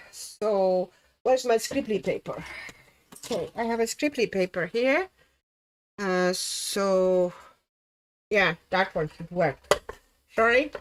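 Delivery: talking around a pencil in the mouth; pen in teeth. Real, not acted. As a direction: speak with a marker between the teeth. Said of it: "if I'm speaking weirdly, that means that I possibly have a marker or pencil in my teeth".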